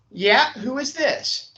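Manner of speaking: high, slow receptionist; gatekeeper voice. Acted. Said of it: "changing my voice a little bit".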